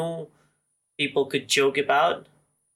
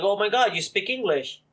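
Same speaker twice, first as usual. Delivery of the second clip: mock amazed local; 7 semitones higher than usual. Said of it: "they'll be like".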